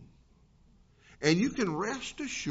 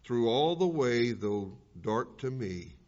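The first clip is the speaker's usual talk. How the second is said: reverent poem read, fading to a whisper at the end; poem recitation; 2 semitones lower than usual. Acted. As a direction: let the verses settle, ending hushed.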